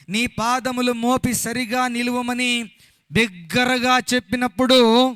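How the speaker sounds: slow, ringing chant-like Bible reading; declaimed scripture reading. Acted. Preacher reading the passage to the congregation, slow and declamatory. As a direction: proclaim each phrase, drawing out the endings.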